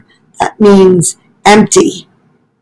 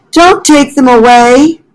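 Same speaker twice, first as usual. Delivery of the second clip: higher, pleading little-animal voice; pleading Fletcher; 5 semitones higher than usual. Acted. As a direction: beg the squirrel to stop. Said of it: "said Fletcher".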